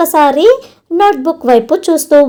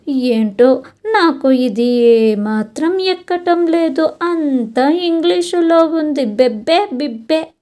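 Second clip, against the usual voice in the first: upset whining; 2 semitones higher than usual. Acted. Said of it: "అంటూ బాధపడుతూ".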